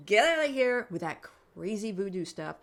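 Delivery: retold incredulous brush-off; acted-out scoffing refusal; loud dismissive protest. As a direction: wave it away loudly and quickly. Acts out refusing colleague's crazy idea.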